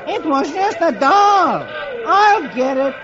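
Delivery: high, slow cartoon soldier; sheepish Beetle. Beetle excuses himself to the cop. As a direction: explain it lamely.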